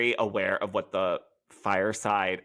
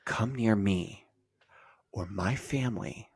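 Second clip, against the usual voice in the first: mock threat; 3 dB quieter than usual. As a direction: drag the threat out, halting between phrases. Acted threat, mocking a castmate.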